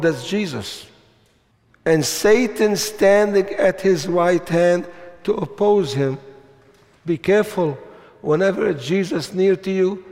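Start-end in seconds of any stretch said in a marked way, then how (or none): 1.8-6.2 emphatic scripture reading; firm, declaring preacher's reading; reading with conviction. Shown as a demonstration. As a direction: proclaim the verse with conviction. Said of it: "and with conviction".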